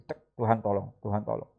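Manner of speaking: bisikan doa yang lirih dan pelan; doa dalam hati. Shown as a demonstration. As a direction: berdoa lirih hampir tanpa suara. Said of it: "berdiam diri sejenak dalam hati". (seperti berdoa dalam hati di tempat kerja)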